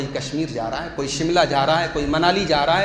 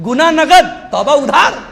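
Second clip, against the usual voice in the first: much higher, louder sarcastic cry; loud mocking slogan; 8 semitones higher, 9 dB louder than usual. Shown as a demonstration. Preacher mocks the sinner's motto, loud and high. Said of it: "mocking slogan shouted".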